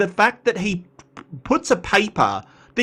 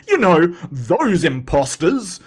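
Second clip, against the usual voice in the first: sarcastic; 3 dB louder than usual. Acted. Sarcastic jab at Donnie.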